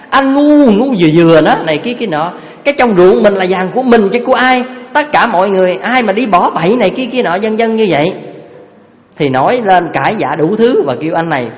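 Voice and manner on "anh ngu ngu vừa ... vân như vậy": angry wife scolding. Retold or imitated. Wife yelling at husband about the gold, angry. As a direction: snap at him like a furious wife.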